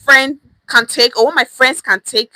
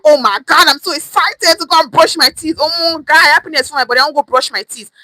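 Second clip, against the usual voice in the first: mock excitement; 3 semitones higher than usual. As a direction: gush like brushing teeth is thrilling. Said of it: "wake up and feel".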